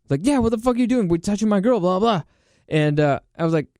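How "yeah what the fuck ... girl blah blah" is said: higher, imitated indignant rant; retold confrontation, lightly heated; mock angry boyfriend. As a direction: imitate a guy's angry tirade, trailing into blah-blah.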